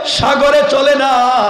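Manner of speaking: crying out loudly with feeling.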